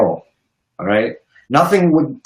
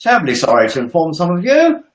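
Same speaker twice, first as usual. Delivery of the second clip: Tiny Tim voice; 3 semitones higher than usual. Shown as a demonstration. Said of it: "Do it in your Tiny Tim voice".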